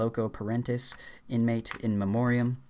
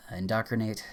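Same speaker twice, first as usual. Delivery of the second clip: hushed unvoiced "indoctrinate"; whispered; faster than usual. Real, not acted. Reciting a word list.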